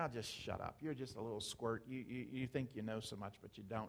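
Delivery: acted mocking taunts. Retelling how the soldiers mocked David, acting out mocking taunts. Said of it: "they mocked him".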